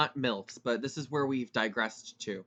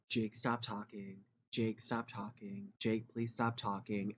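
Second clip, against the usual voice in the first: mock scolding teacher; 5 semitones lower, 7 dB quieter than usual. Teachers scolding him in class, lightly voiced. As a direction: nag him wearily from the front.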